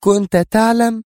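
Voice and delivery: high, loud, drawn-out disbelieving question; indignant astonishment. Acted. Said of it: "هتفت جيهان في دهشة مستنكرة". (دهشة مستنكرة)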